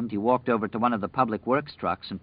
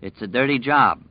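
choked up; 3 semitones higher, 6 dB louder than usual. Acted. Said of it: "Norris said in a low, emotional voice".

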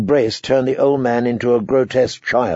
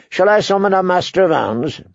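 a touch of good cheer, lifted pitch; cheerful; 6 semitones higher than usual. Acted. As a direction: offer help brightly, pitched up. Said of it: "said Lothar cheerfully".

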